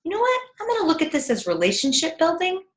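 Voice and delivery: high, quick sudden realization; upbeat self-talk. Retold or imitated. Parent reframing discipline to themselves, upbeat. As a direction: flip the thought brightly.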